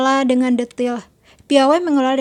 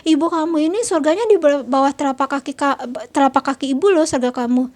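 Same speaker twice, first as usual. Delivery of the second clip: nagging mother. Retold or imitated. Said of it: "ibunya nyerocos".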